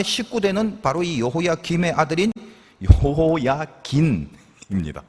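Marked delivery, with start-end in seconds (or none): 3.0-5.0 여호야긴 drawn out very slowly; slow, deliberate 여호야긴 to mark the name; emphatic 여호야긴. Real, not acted. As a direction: stretch out 여호야긴 so the final 긴 stands out. Stressing the confusable name Jehoiachin.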